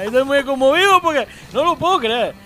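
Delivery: a loose, put-on Paraguayan accent, trailing away. To the Mexican friend, griefstricken in a mock Paraguayan accent. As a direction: play a mournful Paraguayan fan. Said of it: "no me sale el paraguayo".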